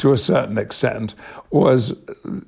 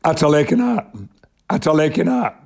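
"Ata lekin art" in thick Yorkshire dialect, a little raised; calling a friend out to play in broad Yorkshire; a Yorkshire schoolboy's "Ata lekin art" called out at a friend's door; 4 semitones higher, faster than usual. Shown as a demonstration. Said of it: "I would say, Yorkshire dialect".

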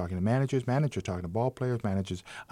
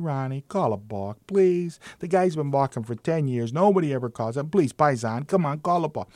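lightly acted begging, lifting on the please; mild pleading; 4 semitones higher than usual. Italian manager begging the umpire for a balk, mild pleading.

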